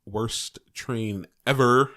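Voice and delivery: put-on slow, drawn-out valley girl whine. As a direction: drag it out like a bored valley girl. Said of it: "sounds like a Valley Girl".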